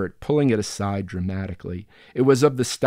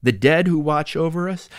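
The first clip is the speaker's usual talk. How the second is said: emphatic protest; 8 semitones higher, 6 dB louder than usual. Acted.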